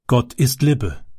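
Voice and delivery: „Libbe“ read as written, short i and double b; misspelled word read out. Shown as a demonstration. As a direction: say „Libbe“ exactly as misspelled, not „Liebe“. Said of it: "Das ist falsch geschrieben". („Libbe“ wie falsch geschrieben gelesen)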